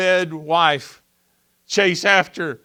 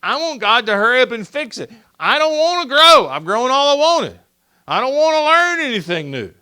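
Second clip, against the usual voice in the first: whiny grumbler; 5 semitones higher than usual. Acted. Preacher voicing his grumbling self.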